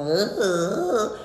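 drained groans; mock groaning. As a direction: groan like after a tiring ritual. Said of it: "termino así como".

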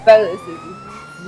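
sudden very high outraged yelp; indignant squeak. Acted. Prosecutor shrieks as the suspect twists her words. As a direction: jump way up in pitch, scandalised. Prosecutor cut off mid-argument.

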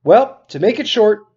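steady read-aloud narration, characters lightly voiced; teacher reading a novel aloud to students; story narration. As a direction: read the chapter to your class like a storyteller. Teacher reads novel aloud to class.

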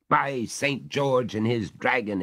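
slow, astonished oath; startled exclamation. Acted. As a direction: blurt it out in shock. Master exclaims.

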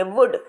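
वुड with a quick short oo; teacher showing the short double o. Shown as a demonstration. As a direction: clip the vowel short in वुड. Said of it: "sound क्या हो गई है मेरी, बिल्कुल change हो गई है".

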